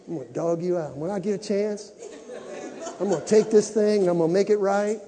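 low, hushed grumble of a grudge; muttered under breath. Acted. A churchgoer grumbling threats about someone, muttered under breath. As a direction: mutter the threat half to yourself.

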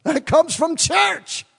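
high, loud laughing punchline; laughing high and loud at the joke. Real, not acted. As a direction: laugh the word church out, slow. Preacher jokes about hypocrites' origin.

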